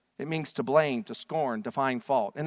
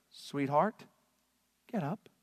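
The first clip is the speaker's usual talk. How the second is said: soft, gentle sweetheart call; tender wake-up; 4 dB quieter, slower than usual. Retold or imitated. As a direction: coax her awake softly. Jesus gently wakes the girl.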